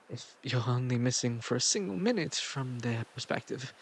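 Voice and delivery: seductive god tempting a mortal, with dramatic swells and pauses; lightly voiced godly tempter in a put-on accent; Greek god vibe. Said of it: "going for, like, a Greek god vibe".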